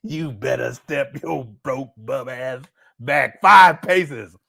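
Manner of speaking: slow stern threat, then loud; slow stern granny. Retold or imitated. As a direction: drag out the threat, punch the end. Granny archer warning retold.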